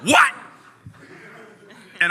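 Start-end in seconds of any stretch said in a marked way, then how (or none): 0.0-0.3 very high, loud yelp; comic high-pitched outburst; retold shock. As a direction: squawk it in sheer disbelief. Retold shock at surprise co-host.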